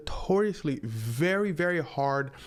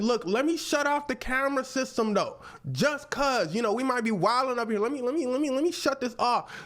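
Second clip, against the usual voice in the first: sneaky cop voice; 10 semitones higher than usual. Retold or imitated. Officer voiced in retold story.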